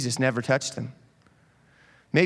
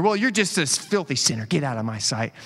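mock insult. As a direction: play a sneering accuser sending someone off. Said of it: "start making fun of the other".

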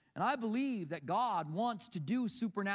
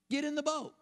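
insistent plea; 7 semitones higher than usual. Acted. Acts himself ordering Jesus into boat.

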